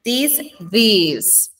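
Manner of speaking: first "This" short, second "this" longer; short versus long. Shown as a demonstration. Teacher comparing two similar words, short then lengthened "this". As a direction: contrast "This" with a stretched "this" like these. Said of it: "este es como más larguito".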